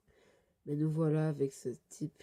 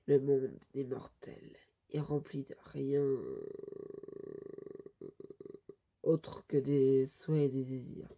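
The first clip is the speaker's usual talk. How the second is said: louder, weighty declaration with long pauses; solemn villain proclamation; 3 dB louder than usual. Acted. Villain condemning mortals to devour each other, solemn proclamation. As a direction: proclaim doom on all mortals.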